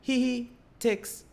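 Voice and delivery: high, giggly mom reading her text; imitating mom. Son mimics mom's texted giggle, high and giggly. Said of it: "my mom says".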